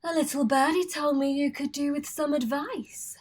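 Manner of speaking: breathy, flirtatious whisper; sultry whisper. Acted. Famine whispering flirtatiously to Alex on the chaise. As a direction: lean in and purr it secretly.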